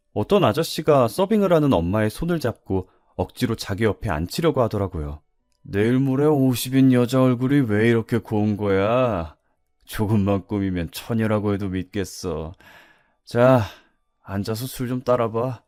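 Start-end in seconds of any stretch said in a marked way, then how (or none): 5.6-15.6 a hint of a leering restaurant regular; lightly voiced pushy older customer. Older customer presses the waitress to sit and pour, lightly leering. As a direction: lightly act a man sweet-talking the waitress.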